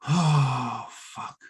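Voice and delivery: low sighing curse, fading away; retold resigned dread. Guitarist pushed onstage with no drummer, resigned. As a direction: let it sag out softly on a long sigh.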